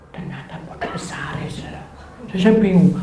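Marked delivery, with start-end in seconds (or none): 0.1-1.8 low, near-whispered reveal; hushed dismay. Retold or imitated. Speaker finds the motorbike is a big one, hushed dismay. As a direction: let the voice sink almost to a whisper.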